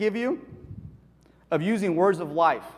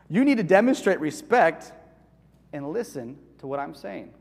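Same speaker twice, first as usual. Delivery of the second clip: calm parent. Retold or imitated. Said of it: "Do you see the difference?".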